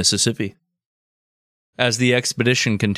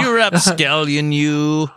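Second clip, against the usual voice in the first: higher, laughing you rapscallion; laughing tease; 5 semitones higher, slower than usual. Retold or imitated. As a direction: chuckle through the mock scolding. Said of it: "He's like".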